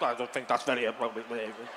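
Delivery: mock a huffy, proper woman; a light send-up of a prissy hotel guest; prim disapproving Brenda. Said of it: "Brenda storming away like".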